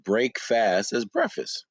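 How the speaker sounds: "break fast" slow as two words, then "breakfast" run together; "break fast" then "breakfast", slow and deliberate. Shown as a demonstration. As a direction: split "break fast" slowly, then say "breakfast" as one word. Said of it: "I need everybody to pronounce".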